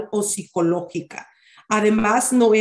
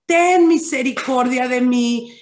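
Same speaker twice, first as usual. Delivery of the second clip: retold shout; 3 semitones higher than usual. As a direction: call out for mercy, not at full voice. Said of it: "Y dice que él gritaba, le gritaba".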